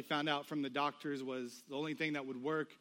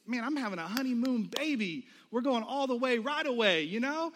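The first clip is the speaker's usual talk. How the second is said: mildly hyped-up groom, higher pitched; excited, louder as the plan grows; eager boasting; 6 semitones higher, 3 dB louder than usual. Retold or imitated. Groom telling his friend about baby plans, imitated excitement.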